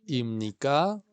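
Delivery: aboji ibnika spelled out slowly, syllable by syllable; slow teacher demo of aboji ibnika; slow model phrase. Shown as a demonstration. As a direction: say it slowly for the class to repeat.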